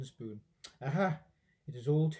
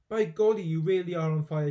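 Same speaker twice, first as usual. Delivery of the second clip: loud amazed exclamation; astonished; 7 dB louder than usual. Acted. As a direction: gasp it out amazed. George astonished.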